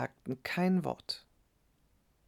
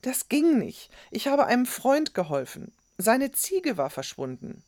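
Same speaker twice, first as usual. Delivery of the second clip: put-on high, pleading boy's voice; boy defending himself; 9 semitones higher, 3 dB louder than usual. A narrator's reading. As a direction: explain yourself in a much higher voice. (sich rechtfertigender Junge, hohe Stimme)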